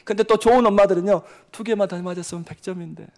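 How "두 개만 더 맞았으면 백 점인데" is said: angelic mother. Retold or imitated. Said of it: "천사표처럼 이야기해도".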